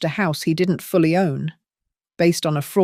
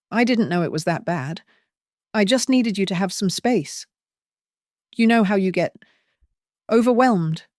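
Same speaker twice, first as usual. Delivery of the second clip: cloying patronizing warmth; 3 semitones higher than usual. Acted. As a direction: coo at her like a fragile child. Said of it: "a cloying, patronizing warmth".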